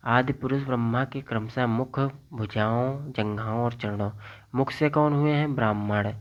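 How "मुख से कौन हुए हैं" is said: quiz question. Shown as a demonstration.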